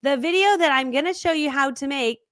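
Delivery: over-polished, drawn-out presenter delivery; super-curated presenter. Shown as a demonstration. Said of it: "videos that are super curated. Here's an example".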